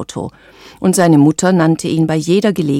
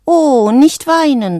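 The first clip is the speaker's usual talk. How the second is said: slow, higher soothing coo; mild comforting; 7 semitones higher, 3 dB louder, slower than usual. A narrator's reading. Frog comforting the crying little bird, mild and slow. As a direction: soothe gently, stretching the words. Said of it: "sagte Valentino mild".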